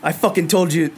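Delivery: angry dwarf. Acted. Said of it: "He goes".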